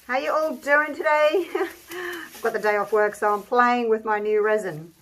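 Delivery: talking through a face mask; muffled through mask. Real, not acted. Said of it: "If I sound a bit muffled, I'm sorry, I've got a mask on".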